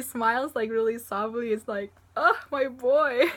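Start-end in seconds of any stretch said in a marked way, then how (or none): 2.2-3.3 slow, drawn-out adoring exclamation; doting gush. Acted. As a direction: gush over a beloved character, slowly. Voices fond reaction to Todoroki smiling.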